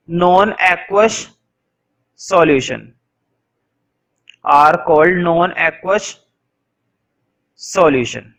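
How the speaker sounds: drawn-out dictation, one word at a time; teacher dictating a definition; slow dictation. Shown as a demonstration. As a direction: give the class time to write each word. Teacher dictating notes slowly.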